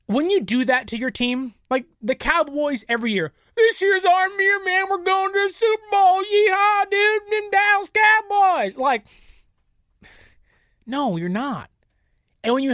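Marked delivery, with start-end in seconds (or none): 3.6-4.9 high, loud hyped-up fan voice with a yeehaw; mock Cowboys fan. Mocking overconfident Cowboys fans, high loud hyped yeehaw. 4.9-6.2 mock fan boast. 6.2-8.8 high, loud hyped-up fan voice with a yeehaw; mock Cowboys fan. Mocking overconfident Cowboys fans, high loud hyped yeehaw.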